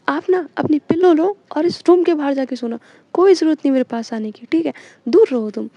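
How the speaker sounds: loud angry scolding, sending her out of the room. Retold or imitated. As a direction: bark the order to take the pillow and go. Angry girlfriend banishes partner.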